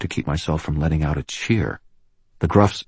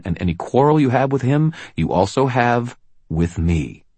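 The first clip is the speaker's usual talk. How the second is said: raised, commanding lawwoman voice; firm policewoman; 7 semitones higher, 3 dB louder than usual. Acted. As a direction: stand your ground, loud and firm. Murphy lays down the law.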